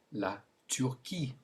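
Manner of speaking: "la Turquie" in French, ending in a kee sound; French pronunciation. Shown as a demonstration. Teacher gives learners a country to repeat, French pronunciation. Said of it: "Say it".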